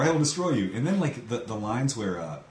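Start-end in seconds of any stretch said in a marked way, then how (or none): 0.0-0.7 loud, higher monster threat; barbarian roar. Retold or imitated. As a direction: boom it like an alien menace.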